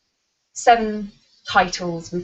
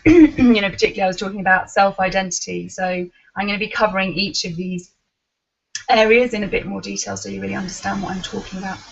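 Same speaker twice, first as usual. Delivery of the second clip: hoarse, catching throat; frog in throat; faster than usual. Real, not acted. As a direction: speak through a frog in the throat. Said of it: "I've got a frog in my throat".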